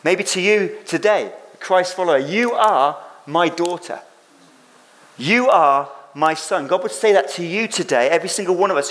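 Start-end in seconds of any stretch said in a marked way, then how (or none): 2.2-6.7 slow, gentle affirmation; slow tender voice of God. Acted. Preacher voicing God to believers, slow and tender. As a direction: say it slowly and tenderly, like a father.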